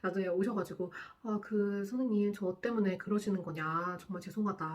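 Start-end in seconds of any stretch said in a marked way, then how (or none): 1.2-4.6 slow, softer apology; apologetic. Retold or imitated. Guardian apologizing to the nurse, slow and soft. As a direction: say sorry gently and slowly. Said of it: "막 이런 식으로 이제 사과를".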